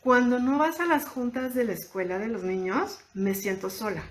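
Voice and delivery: calm, even, sincere statement of feeling; assertive calm statement. Shown as a demonstration. Wife telling her partner her feelings, calm and sincere. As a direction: state the feeling without blaming. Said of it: "La respuesta asertiva o la frase asertiva sería".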